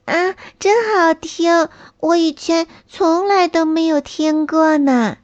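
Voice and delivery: put-on high, happy child voice; amazed by the sweet sounds; delighted little snail.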